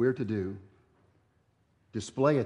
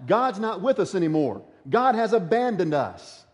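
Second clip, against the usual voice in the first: complaining Israelites; 5 semitones higher than usual. Retold or imitated. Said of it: "They begin to say flat out".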